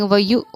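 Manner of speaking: व यु with an abrupt catch on the hamza; jerked hamza sakina. Shown as a demonstration. Teacher repeats the hamza sakina jerk in व यु. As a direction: clip the hamza in व यु sharply. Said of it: "इस तरह करके".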